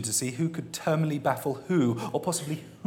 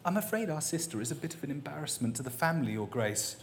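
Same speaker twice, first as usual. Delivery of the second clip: careful; 8 dB quieter, faster than usual. A narrator's reading. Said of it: "said carefully".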